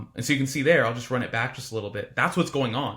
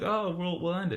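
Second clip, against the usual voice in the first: softer, higher, hesitant quote; lightly acted backpedal, pitched up; mock last-minute promise; 4 semitones higher, 5 dB quieter than usual. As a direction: imitate a candidate meekly offering a promise.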